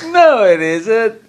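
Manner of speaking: squeaky pleading tempter; Yetzer Hara voice. Acted. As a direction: play the lazy inner voice begging to stay in bed. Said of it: "that's your Yetzer Hara".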